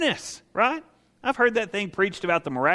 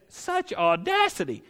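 grumbling onlookers. Acted. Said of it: "the grumbling of everybody around that says".

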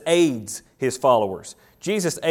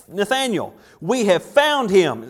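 high, slow, eager announcement; excited Philip calling to his friend; 4 semitones higher, slower than usual. Acted. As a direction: burst with the news of a lifetime. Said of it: "you can sense the excitement in Philip's voice".

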